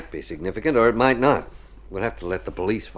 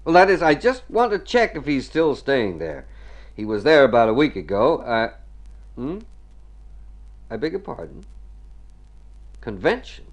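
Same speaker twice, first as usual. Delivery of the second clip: phone voice; 7 semitones higher, 5 dB louder than usual. Acted. Calling the hotel on telephone.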